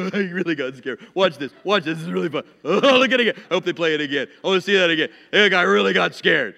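acted delighted cackling at a video; laughing hard. Preacher imitating himself watching home videos, gleeful laughing. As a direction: laugh through the words, hammed up.

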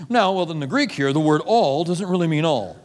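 lightly voiced know-it-all insisting all doesn't mean all; a hint of a smug scholar explaining away the Greek; mock Greek scholar. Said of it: "I love when they go back to the Greek".

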